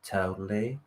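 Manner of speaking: low, soft, very slow Californian drawl; Californian accent. Shown as a demonstration. Demonstrating his impression for Monica, Californian accent. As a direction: stretch it out in a laid-back Californian accent. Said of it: "that's my Californian impression".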